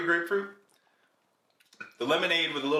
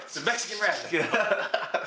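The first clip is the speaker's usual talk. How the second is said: slow hissing snake voice, stretch every s; drawn-out s like a snake; 5 semitones higher, slower than usual. Pretend. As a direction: hiss it out slowly like a Texan snake. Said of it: "Texan guy describing a Mexican snake".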